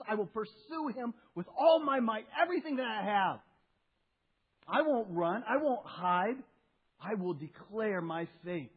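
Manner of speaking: Peter's bold vow. Retold or imitated. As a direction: swear it boldly like an overeager disciple. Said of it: "the answer that Peter said".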